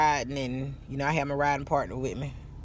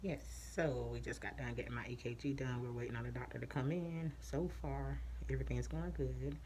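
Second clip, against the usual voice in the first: muffled through a face mask; behind mask; 2 semitones lower, 16 dB quieter than usual. Real, not acted. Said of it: "I can't really talk with this mask on".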